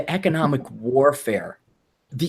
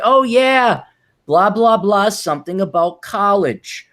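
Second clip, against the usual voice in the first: lightly voiced chirpy young woman, higher; a hint of a bubbly college girl; mock young woman; 4 semitones higher, 3 dB louder, slower than usual. Mocking a young woman's chatter. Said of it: "She might wanna say".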